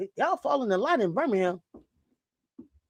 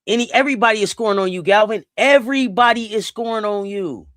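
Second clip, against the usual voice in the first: loud, fast scolding at the screen; exasperated yelling; 5 dB louder than usual. Real, not acted. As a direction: chew her out, rapid-fire. Yelling at a player on TV.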